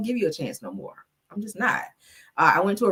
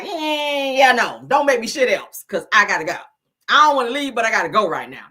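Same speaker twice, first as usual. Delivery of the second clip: attitude; 5 dB louder than usual. Retold or imitated. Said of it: "That's my attitude".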